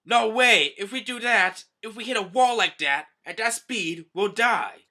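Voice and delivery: high, loud frightened protest; panicked protest. Acted. Human pirates protesting Hody's deadly plan in alarm. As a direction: refuse in alarm.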